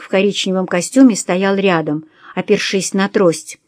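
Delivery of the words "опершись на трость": ordinary delivery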